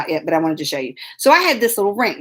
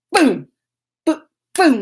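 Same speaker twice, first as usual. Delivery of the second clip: punchy little explosion noises; mock blast sound; imitated boom; 4 semitones higher, 4 dB louder than usual. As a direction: punch out each boom on its own. Imitating her temper going off.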